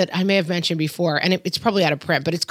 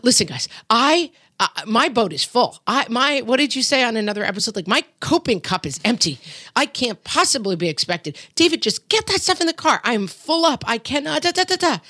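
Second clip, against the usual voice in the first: frazzled mom rant; 4 semitones higher than usual. Retold or imitated. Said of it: "which is like".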